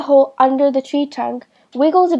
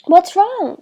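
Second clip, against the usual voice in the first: yelled; 7 semitones higher than usual. A narrator's reading. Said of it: "James yelled".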